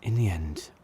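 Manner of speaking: a hushed whisper, voice dropped away. Acted. Mourner musing at the grave, whispered. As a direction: breathe the words out without voice.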